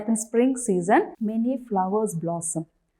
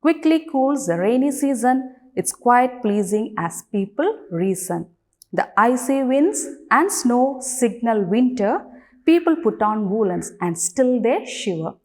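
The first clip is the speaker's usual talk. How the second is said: deliberate recital, each phrase set apart; poem recitation; 2 semitones higher than usual. Shown as a demonstration. Teacher starts reciting the poem for children, poem recitation. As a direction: recite the verse clearly for a class. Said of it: "let's start reciting the poem".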